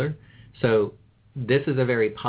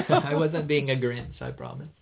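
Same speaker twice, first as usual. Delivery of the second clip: talking through a laugh; 4 semitones higher than usual. Real, not acted. Laughing off a joke.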